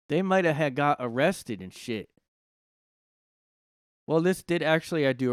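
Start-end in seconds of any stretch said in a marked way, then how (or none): 0.1-2.1 redone line. Shown as a demonstration. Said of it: "I don't know why I said it like that".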